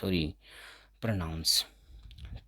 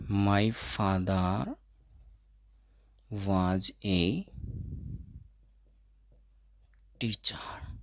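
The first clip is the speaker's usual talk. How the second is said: very slow, word by word; slow demo sentence; 5 dB quieter, much slower than usual. Shown as a demonstration. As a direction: spell it out slowly for learners. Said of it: "कि जैसे मान लीजिए". (बहुत धीरे-धीरे उदाहरण वाक्य)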